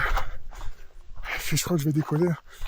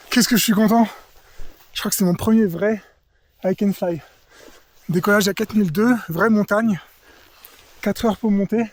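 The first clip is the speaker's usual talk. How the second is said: elated; 2 semitones higher than usual. Real, not acted. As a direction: gush with post-flight joy. Elated after first flight.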